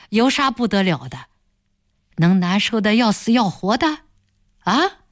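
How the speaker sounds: lightly voiced boss, smooth threat; threatening village boss. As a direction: push her back with a cool veiled threat. Boss brushes off her crying. (软中带硬的威胁口吻)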